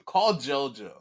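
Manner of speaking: loud punchy call. Real, not acted. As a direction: shout the pick out. Calling out a wrestler pick.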